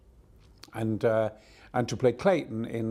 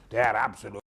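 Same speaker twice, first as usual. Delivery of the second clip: put-on German banker accent; 3 semitones lower than usual. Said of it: "said the head of the Bundesbank".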